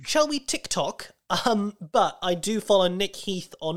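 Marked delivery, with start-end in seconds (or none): 0.1-1.1 higher, slow mock-innocent question; silly high tease. Co-host teasing back in a high, slow put-on voice. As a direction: pitch it up and drawl it like a joke.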